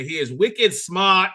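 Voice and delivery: put-on playful, drawn-out Boston accent. Host introducing his Boston-area guest, playful Boston accent. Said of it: "just a touch better on the Boston accent".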